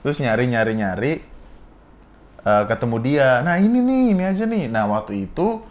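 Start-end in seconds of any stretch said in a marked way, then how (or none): 3.4-4.7 higher-pitched eager quote; antusias menemukan pilihan. Retold or imitated. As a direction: act out spotting the right one. Menirukan diri saat menemukan MC. (seruan antusias bernada tinggi)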